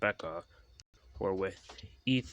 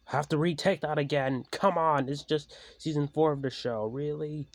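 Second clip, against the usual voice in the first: annoyed aside; 7 semitones higher, 5 dB louder than usual. Real, not acted. Breaks character annoyed.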